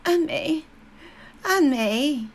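loud, high anguished calls; mother crying out. A narrator's reading. Mother calls to her daughter across the table, loud and high. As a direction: cry the name out loud. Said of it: "my mother's voice crying".

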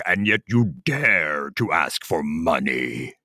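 low, stern giant voice; a booming giant's rebuke. Acted. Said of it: "The giant spoke and said".

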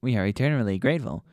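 fast, hammy grateful alien; fast mock solemn. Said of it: "You have saved our lives".

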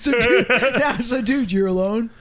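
hammed-up tearful comic; emotional take. Shown as a demonstration. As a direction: overplay the heartbreak, laughing. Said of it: "I have to girth up".

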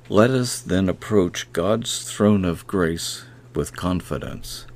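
a measured, reverent reading of the verse; scripture reading. Acted. Preacher reading Hebrews to podcast listeners, reverent. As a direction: read the scripture slowly as prayer.

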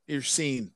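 Sean said as SEEN; mock mispronunciation, Sean as SEEN; literal Sean. Shown as a demonstration. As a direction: read Sean to rhyme with bean. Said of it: "S E A N".

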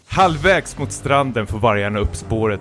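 dramatic reading of his own fan fiction; hammed-up storybook narration; story narration. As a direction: read it like a serious novel.

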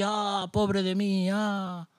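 slow, sighing mock self-pity; mock lament. Preacher mocking gloomy believers with a slow mock lament. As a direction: parody a gloomy believer moaning.

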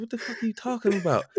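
exasperated disbelief. Retold or imitated. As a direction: throw the line up in comic exasperation.

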